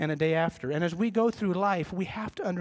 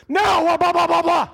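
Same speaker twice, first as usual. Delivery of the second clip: loud, high-pitched shouting over any objection; shouted nonsense rant, far above normal pitch; defensive outburst; 11 semitones higher, 11 dB louder than usual. Acted. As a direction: blurt out a full-volume blustering tirade. Acts out his defensive outburst.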